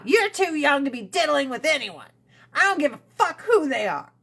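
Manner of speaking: a hint of a fed-up mother; mom voice. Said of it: "She was being a mom".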